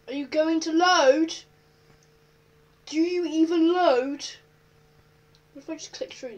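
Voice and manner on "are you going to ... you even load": impatient call. Real, not acted. Waiting for quiz to load.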